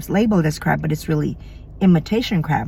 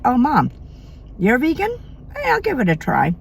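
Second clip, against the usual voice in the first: put-on kid voice; 6 semitones higher than usual. Imagined kids' reply to vegan mom.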